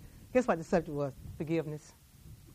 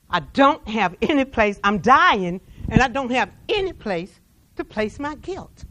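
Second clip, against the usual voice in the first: louder, anguished cry of guilt; desperate plea; 6 dB louder than usual. Acted. Dying soldier begging the Jewish man to hear his guilt, anguished. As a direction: push it out like a last confession.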